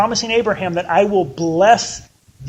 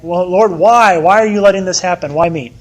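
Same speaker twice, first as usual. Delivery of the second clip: whiny complaint; 7 dB louder than usual. Retold or imitated. Whining at God.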